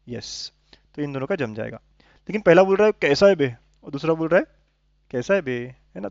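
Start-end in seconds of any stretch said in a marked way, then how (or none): 2.9-3.5 mock rough, firm challenge; rough greeting. Shown as a demonstration. Rough greeting set against gentle one. 5.1-5.7 softer, gentle mock greeting; a little affectionate. Shown as a demonstration. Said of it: "थोड़ा प्यार से बोल रहा है".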